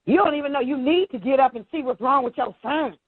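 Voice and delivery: high, indignant scold; mock scolding lady. Staff lady scolding the parent for ignoring his son. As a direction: pitch it up and lecture the parent. Retold quarrel at pickup.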